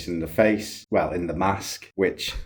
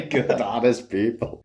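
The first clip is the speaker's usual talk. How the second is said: mock Irish accent; 5 semitones higher than usual. Co-host mimicking host's cop impression, mock Irish accent. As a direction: tease with a hammed-up Irish accent.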